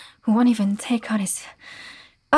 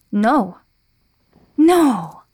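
sharp refusal; 6 dB louder than usual. Acted. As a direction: shout it down. Refuses the thief.

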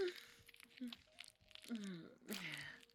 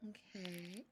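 breathy intimate whisper; 7 dB quieter than usual. Real, not acted. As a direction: whisper it close to the ear. Intimate teasing scene.

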